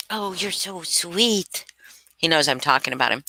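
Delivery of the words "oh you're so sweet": soft, slow pet talk; tender cooing. Real, not acted. Owner to the dog listening nearby, tender cooing. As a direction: coo it gently to your dog.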